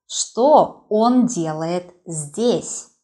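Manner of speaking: slow, loud, surprised Что он делает здесь; surprised question. Shown as a demonstration. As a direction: ask it slowly in open surprise. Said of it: "You can see that my intonation changes".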